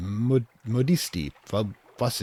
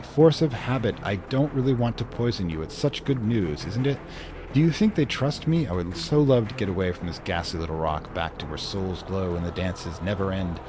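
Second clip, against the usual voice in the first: a hint of a giddy exiled noblewoman; lightly voiced giddy devil lady. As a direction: play her sweet and pleading.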